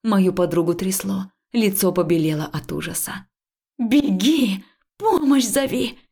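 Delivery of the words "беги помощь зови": loud, high commanding bark; urgent shouted command; barked order. Acted. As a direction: snap the order at her. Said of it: "рявкнула я на неё".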